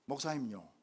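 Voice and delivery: lightly voiced Gyeongsang elder, low; Gyeongsang dialect. Elder addressing his young pastor, Gyeongsang dialect. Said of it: "그 경상도 말로요".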